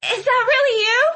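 put-on high girl's voice after crying; acted tearful, high-pitched question. A narrator's reading. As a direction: ask it in disbelief, as if tearful. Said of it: "as if she'd been crying".

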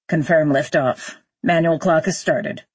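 businesslike astronaut status report; astronaut on radio. Acted. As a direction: report to mission control from the rocket.

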